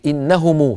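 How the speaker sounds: long uu on the end of إنهم; linked meem. Shown as a demonstration. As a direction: say إنهم as "innahumuu". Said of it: "في الوصل".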